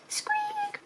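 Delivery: a thin dinosaur squeak, way up high; faint high squeak; tiny high squeak. Acted. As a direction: squeak like a little lost roar. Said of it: "roars a tiny squeak".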